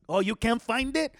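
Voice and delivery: loud, high, sing-song fawning over Charlie; mocking dad. Dad mocking his son by gushing loudly over friend Charlie. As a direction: gush over the friend to shame your son. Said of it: "he did this thing where he was like".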